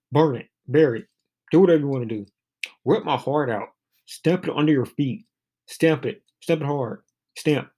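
emphatic poetry reading, each short line punched and falling; poem recitation. Acted. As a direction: read the poem aloud line by line with feeling.

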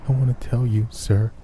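high, broken pleading of a sobbing spirit; a weeping soul begging to be heard; tearful ghost voice. Acted. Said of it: "still broken by crying".

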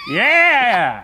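high, loud cheer; real whooping shout of encouragement. Real, not acted. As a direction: shout your delighted approval. Cheering friend's accent attempt.

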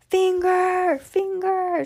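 high wailing mummy voice. Acted. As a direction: moan it like a hungry ghost. Mummy demands.

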